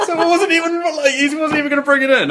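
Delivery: high, giggling through the words; can barely get it out for laughing. Real, not acted. Retelling a film joke while laughing.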